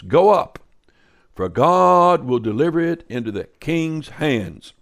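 loud, high proclamation of the false prophets; loud chorus. Acted. Preacher voicing the false prophets, loud. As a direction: call it out loud like a crowd of yes-men.

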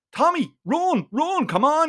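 tearful plea. Acted. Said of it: "he says through his tears".

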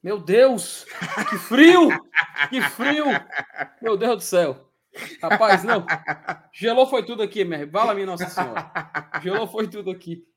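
laughing, shivering from an icy bottle; shivering with cold. Real, not acted. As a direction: squeal through the cold, laughing. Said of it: "chega, gelou aqui de um jeito".

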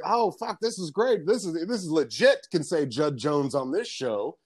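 high-pitched, giddy retelling; excited. Retold or imitated. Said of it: "like, all excited and shit".

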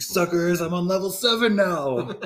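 high, loud, laughing taunt; playful triumphant bragging; mock gloating. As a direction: crow over skipping ahead in a game. Gloats as game player, laughing.

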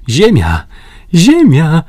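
shouting land ahead, building; excited call. A narrator's reading. Paganel calls out to the others on sighting land, excited. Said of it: "zawołał Paganel".

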